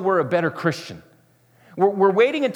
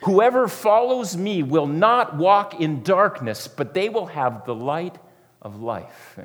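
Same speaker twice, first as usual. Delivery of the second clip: Jesus proclaiming. Retold or imitated. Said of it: "this voice rings out and says".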